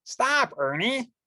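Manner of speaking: cried out. Acted. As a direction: stop him sharply before he touches it. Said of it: "cried Bert".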